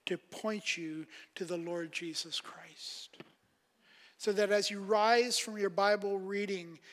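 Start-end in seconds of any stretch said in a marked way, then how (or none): 0.1-3.2 hushed, intense whisper; quiet earnest whisper. Real, not acted. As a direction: drop to a whisper to drive it home. Pastor presses the point.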